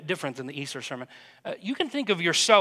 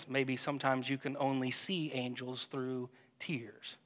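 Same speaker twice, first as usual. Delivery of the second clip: hushed whisper of wonder; soft whispered reflection; 5 semitones lower, 9 dB quieter than usual. Acted. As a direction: breathe it like a secret. Intimate reflection in guided prayer.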